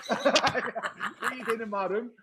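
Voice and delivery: slow, high mock Italian accent; imitated Italian, slow and amused. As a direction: drag it out in a silly Italian accent. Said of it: "Fucking silly Italian accent".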